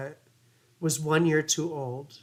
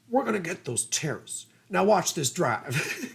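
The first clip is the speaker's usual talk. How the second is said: put-on Texas accent Bush. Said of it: "And that Texas accent".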